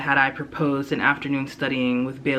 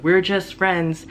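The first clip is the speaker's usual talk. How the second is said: slow, higher, louder, drawn-out sarcastic quote; ironic air quotes; 5 semitones higher, 5 dB louder, slower than usual. A narrator's reading. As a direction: say it as if putting it in scare quotes.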